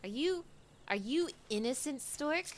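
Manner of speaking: mock detective suspicion. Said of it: "mock detective interrogation".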